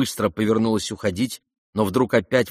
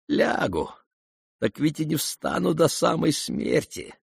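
faint smile; 6 semitones higher than usual. A narrator's reading. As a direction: smile through the weakness. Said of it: "улыбнулся Ипполит".

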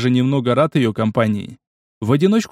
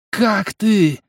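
monster roar; 7 semitones higher than usual. A narrator's reading. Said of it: "взревела она".

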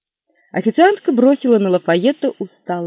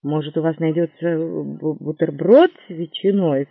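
hopeful. Acted. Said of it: "с надеждой в голосе".

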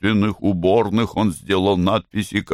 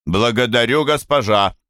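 commanding prompt; 4 semitones higher than usual. Acted. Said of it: "Говори".

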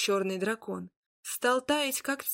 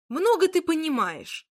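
higher, louder offended snap back; indignant retort; 7 semitones higher, 5 dB louder than usual. Acted. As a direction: bristle at her. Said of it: "возмутился Змеяр".

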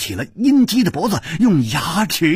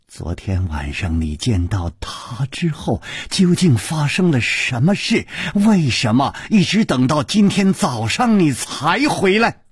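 pressing interrogation. Acted. Jealous woman questioning a companion about last night, pressing. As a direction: begin under the breath, then press for answers.

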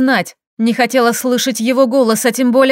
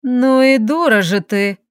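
scoffing; slower than usual. Acted. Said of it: "хмыкнула Дарина".

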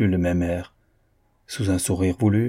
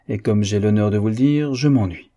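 louder, pointed "je m'ennuie"; emphatic declaration; 4 dB louder than usual. Acted. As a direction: state it boldly, almost defiant. Painter declares boredom emphatically.

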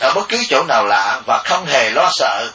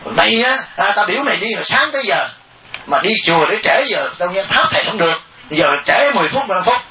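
mother scolding; 2 semitones higher than usual. Retold or imitated. Mother scolding her daughter for being late to the temple, mock angry. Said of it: "bà la cái đứa con gái của bà".

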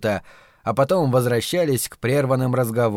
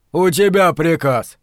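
slow, louder, derisive retort; scornful snort; 3 semitones higher, 5 dB louder, slower than usual. A narrator's reading. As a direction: throw it back with drawn-out contempt. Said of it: "фыркнул Ральф". (презрительно, с фырканьем)

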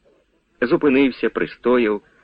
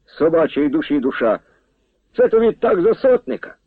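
calling out; 6 semitones higher than usual. A narrator's reading. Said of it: "і гукнув".

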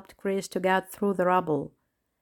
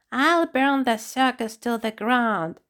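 creepy hateful voice; 4 semitones higher than usual. Acted. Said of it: "His creepy voice was full of hatred".

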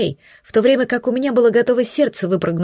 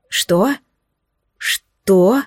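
blurted in surprise. A narrator's reading. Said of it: "выпалили в один голос".

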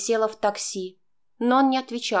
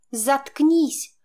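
shaky hiss; 5 semitones higher, 4 dB louder than usual. A narrator's reading. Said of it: "процедила я дрожащим голосом".

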